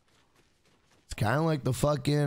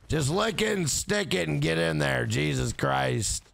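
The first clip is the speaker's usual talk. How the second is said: mock impatient, bored phone sex operator; unenthused sex operator. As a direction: play a lightly voiced operator who wants it over. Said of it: "very unenthused to be a sex operator".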